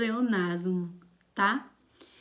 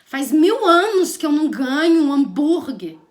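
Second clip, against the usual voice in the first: loud, hammed-up whine to parents; exaggerated complaint; 3 semitones higher, 10 dB louder than usual. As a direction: complain loudly as if badly deprived. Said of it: "Ou então você fala assim pros seus pais". (reclamação exagerada, em voz bem alta)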